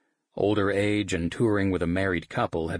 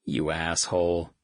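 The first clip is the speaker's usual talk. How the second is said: grinning groan. Acted. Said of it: "Ty groaned with a grin".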